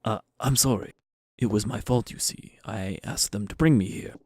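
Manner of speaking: hesitant, meek scientist character; lightly voiced timid researcher; apologetic scientist. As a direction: introduce yourself haltingly and apologetically.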